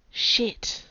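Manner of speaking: whispered swear under the breath; muttered curse. Acted. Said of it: "and then in a different voice".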